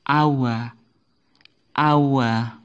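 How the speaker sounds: awa, with no h sound; correct pronunciation. Shown as a demonstration. Teacher modeling awa for students, silent H. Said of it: "Ini membacanya adalah".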